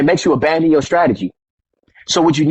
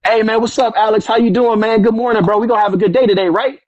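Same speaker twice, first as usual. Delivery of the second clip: higher-pitched, put-on friendly greeting; buttering up; 5 semitones higher than usual. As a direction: act out sucking up to the boss. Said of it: "started playing up to his ego".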